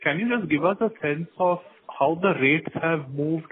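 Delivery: normal talking voice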